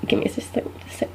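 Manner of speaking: very soft mumble round a bite; mouth full. Retold or imitated. Student caught mid-cookie stalling a stranger, soft mouth-full mumble. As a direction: imitate talking while still chewing. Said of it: "And you swallow your little bite of cookie".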